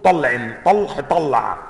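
"طلع" بالعين و"طلح" بالحاء متقابلتان; فرّق بين الحاء والعين; حاء وعين. Shown as a demonstration. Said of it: "بإبدال حرف قريب المخرج". (طلح بالحاء وطلع بالعين)

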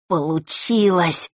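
a lightly happy, slowed exclaim; a touch of relieved happiness; happily. A narrator's reading. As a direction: let a small joy show in it. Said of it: "счастливо произнёс Ник".

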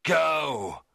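high, loud command; angry shout. Acted. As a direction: drive him away. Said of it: "I cried".

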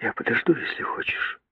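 whisper. A narrator's reading. Girl continues whispering.

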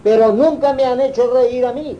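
high, loud complaint; emphatic outburst. Real, not acted. Telling the audience, a loud indignant complaint. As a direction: hit it hard, indignant at the clergy. Complains clergy never amused him.

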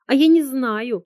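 high, loud outburst; exclaiming. A narrator's reading. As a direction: fling it out. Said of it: "воскликнула Анька".

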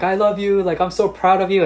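high, loud cry of love across the court; father calling out his love to his daughter; shouting praise. Retold or imitated. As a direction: shout it out like a proud dad.

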